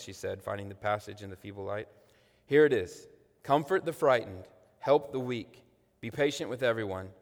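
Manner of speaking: dramatic book reading aloud to the congregation; sermon reading of a book passage; story reading. A narrator's reading. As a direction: read it like a storyteller, voicing the sisters.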